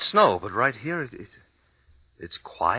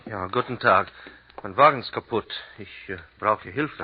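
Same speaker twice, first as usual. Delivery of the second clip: put-on halting German with an American accent; an American getting through his German phrases. American traveller asks the innkeeper for help in halting, American-accented German. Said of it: "My accent still doesn't fool anyone".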